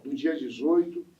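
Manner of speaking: measured promotional invitation; event announcement. Real, not acted. Host inviting listeners to the samba school's feijoada, announcer style. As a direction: announce the feast to everyone listening.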